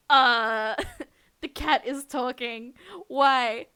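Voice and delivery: real shock. Real, not acted. Shocked the cat talks.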